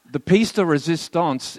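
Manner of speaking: lightly French-flavoured pronunciation of the phrase; French accent. Pretend. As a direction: give it a hint of French. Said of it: "so I could do my French accent".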